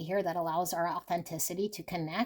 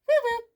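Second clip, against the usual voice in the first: mock whistle sound; 7 dB louder than usual. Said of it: "that whistle".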